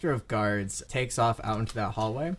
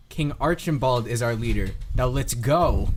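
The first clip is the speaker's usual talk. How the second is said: louder, firm order; impatient guard; 6 dB louder than usual. Acted. Guard answers who leads and orders departure, impatient. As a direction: state it, then hustle them along.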